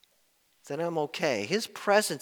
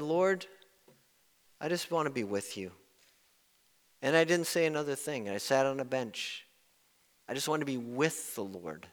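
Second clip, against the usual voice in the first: soft retold prayer; 3 semitones lower, 7 dB quieter than usual. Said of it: "He said".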